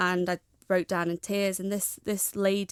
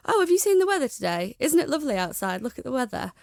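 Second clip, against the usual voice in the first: much higher, louder start easing off; imitated forced cheeriness; 5 semitones higher, 5 dB louder than usual. Retelling lady switching to weather after hearing suicide, forced cheeriness. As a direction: mimic someone brightly dodging the subject. Quoting lady hastily changing the subject.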